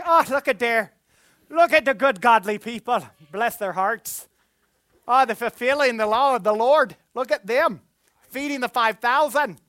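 put-on playful Irish accent, projected. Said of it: "I don't know why I went Irish".

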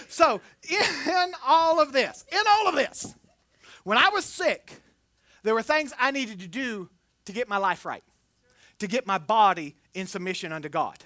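ordinary talk

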